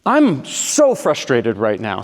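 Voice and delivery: slow, emphatic frustration; acted vitriol. Girlfriend tells boyfriend her feelings, acted vitriol. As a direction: lean hard and slowly on the angry words. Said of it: "Same vitriol as before".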